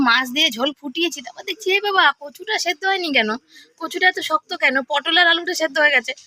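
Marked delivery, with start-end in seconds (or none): 1.7-6.1 higher, startled realisation; oh no, why is it still hard; dismayed surprise. Retold or imitated. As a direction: gasp at the still-hard taro. Surprised at unboiled taro.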